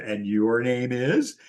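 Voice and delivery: slow, drawn-out prompting question with a rise; retold teasing prompt, said slowly; slow pointed prompt. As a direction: stretch it out so they must fill in the name. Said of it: "And so she said".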